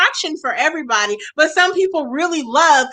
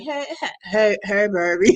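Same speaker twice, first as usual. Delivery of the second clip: a hint of a cracking boy's greeting; lightly mocked teen boy voice; lightly voiced squeaky teen boy; 5 semitones lower than usual. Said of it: "It was more like".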